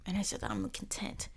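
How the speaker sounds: whispered aside. Real, not acted. Soft aside to herself.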